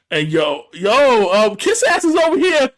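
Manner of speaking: hyped squeal, way up high; mock excited shout; high excited quote. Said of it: "Nikki's like".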